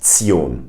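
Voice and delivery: ZION as "tsee-OHN"; German -tion ending. Shown as a demonstration. Teacher demonstrates the word ending, German "tsee-ohn". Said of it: "it's pronounced".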